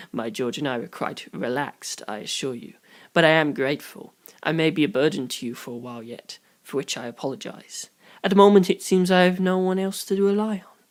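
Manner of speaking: quiet formal gratitude; courteous old-world gentleman. Acted. Sukumajuku apologizing formally.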